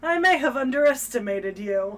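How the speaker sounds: mock grudging admission, firmly voiced; begrudging. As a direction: concede it reluctantly, playing the part.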